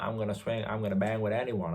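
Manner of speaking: lightly put-on American accent; badly faked American fighter's brag; Trevor Peek. A British pundit imitating a brawling fighter, awful American accent. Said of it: "that's an awful American accent".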